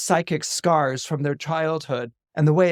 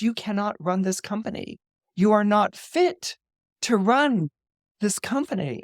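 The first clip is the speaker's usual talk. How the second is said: firm; 5 semitones higher than usual. Retold or imitated. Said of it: "Shiv says".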